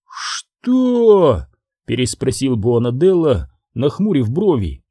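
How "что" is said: sharp high questioning "Что?"; puzzled what. Acted. Boss puzzled by the henchman's idea, high surprised question. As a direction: frown and ask back.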